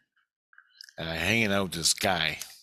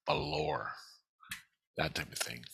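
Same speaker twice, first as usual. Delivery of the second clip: whisper; 4 semitones lower, 10 dB quieter than usual. Real, not acted. Aside about dream depth.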